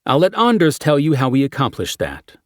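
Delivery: brief the team like a cop; briefing detective voice. Acted. Character briefing quote.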